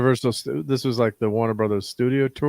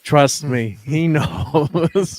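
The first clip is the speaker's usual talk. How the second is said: knowing retort; 5 semitones higher, 4 dB louder, much slower than usual. Retold or imitated. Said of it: "she kinda looked at him like".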